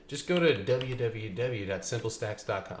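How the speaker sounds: a light, upbeat ad-read voice; commercial voice. Acted. Pitching the website to viewers in a mild commercial voice. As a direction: pitch the website like a radio spot. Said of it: "That was my commercial voice".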